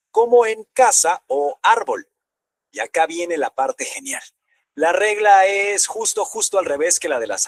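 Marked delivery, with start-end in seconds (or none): 0.7-2.1 casa and árbol raised, punched on CA and ÁR; stress on penultimate syllable. Shown as a demonstration. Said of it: "el golpe de voz va en la penúltima sílaba". (casa y árbol con el golpe de voz en la penúltima)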